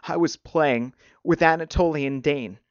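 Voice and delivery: put-on upset boy blurting in short bursts; short spurts. A narrator's reading. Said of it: "voice came in short spurts".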